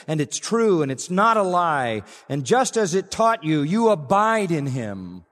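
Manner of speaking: fervent preaching crescendo; rising preaching fervor. Real, not acted. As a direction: press harder and climb with each clause until the preacher is nearly shouting. Preacher building to climax.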